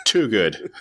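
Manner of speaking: laughing, stressing too; laughing emphasis. Real, not acted. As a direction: chuckle through it, stress too.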